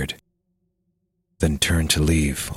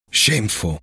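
shaky shocked voice; 3 semitones higher than usual. Acted. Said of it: "Strange, shaky voice, shocked maybe".

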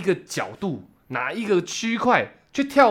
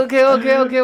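higher, louder and slower through a laugh; laughing agreement; 7 semitones higher, 4 dB louder, much slower than usual. Retold or imitated. Host recalls agreeing to a fan's photo, laughing. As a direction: laugh out the OKs, flattered.

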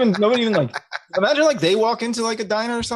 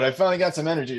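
usual speaking voice

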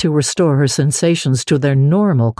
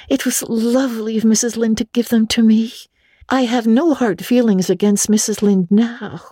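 put-on high, quick young girl voice; a chattering imaginative orphan girl; Anne, girlish and eager; 8 semitones higher than usual. Anne complains to Marilla, high girlish voice. Anne's voice.

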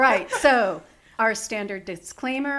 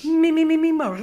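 higher, louder singing scale syllables; vocal warm-up; 6 semitones higher, 6 dB louder, faster than usual. Shown as a demonstration. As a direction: warm up the voice like an actor. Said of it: "Doing my little actor's voice warm up".

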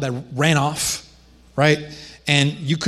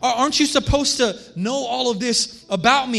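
put-on higher, earnest young Jesus questioning his mother; Jesus pleading with Mary; 5 semitones higher than usual. Young Jesus asking his mother Mary why she searched, earnest. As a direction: plead gently, wondering why she didn't know.

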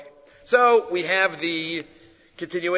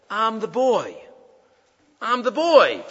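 higher-pitched confession with falling ends; emotional revelation; 6 semitones higher than usual. Acted. Man at the back of the shul revealing himself, emotional. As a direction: reveal it, then insist more firmly.

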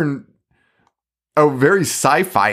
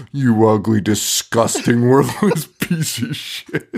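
mock monkey rage; 3 semitones lower, slower than usual. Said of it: "channeling the monkey".

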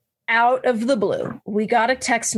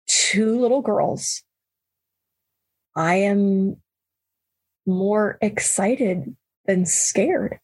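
slow, gentle and earnest; sincere; 2 semitones lower, much slower than usual. Retold or imitated. Husband reassuring his wife, slow and sincere.

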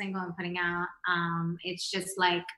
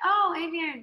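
retelling own pick; 8 semitones higher, 4 dB louder than usual. Retold or imitated. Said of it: "at first I'm like".

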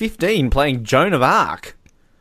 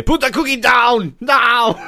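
loud, high, drawn-out mock shout; Arnold Schwarzenegger; 9 semitones higher, 5 dB louder, slower than usual. Quoting a favorite film line, hammed-up furious order. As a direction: bellow it in an Arnold-style action-hero impression. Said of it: "he quotes all his famous".

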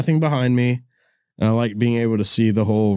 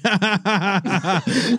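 high put-on laugh; a higher, acted ha ha ha; mock laughing; 7 semitones higher, slower than usual. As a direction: fake a goofy ha-ha laugh. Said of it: "I'm like".

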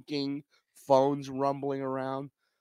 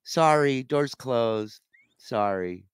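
loud, curt fake apology; dismissive sorry; 7 dB louder, slower than usual. Gate agent shutting the door on him, loud curt sorry. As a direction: brush him off with a hollow sorry. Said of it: "He goes".

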